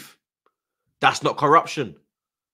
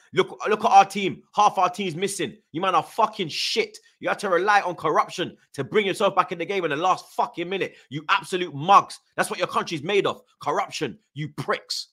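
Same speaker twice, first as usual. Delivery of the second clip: heated, higher-pitched tirade; angry rant; 4 semitones higher than usual. Real, not acted. Fan berating the rival team's supporters, angry rant. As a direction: lay into them, indignant.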